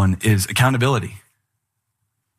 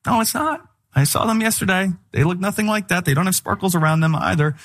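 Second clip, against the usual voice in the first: high indignant denial; a touch of mock outrage; 5 semitones higher than usual. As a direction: pitch it up in disbelief. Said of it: "It's like".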